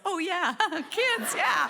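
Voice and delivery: laughing dad. Retold or imitated. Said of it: "my dad yells".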